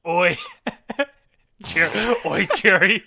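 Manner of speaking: high, loud mock British sitcom neighbor; hammed-up British yelp, breaking into laughter; British-accented Kramer. Co-host tries a British spin on a sitcom character, British Kramer. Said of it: "put a British spin on Kramer".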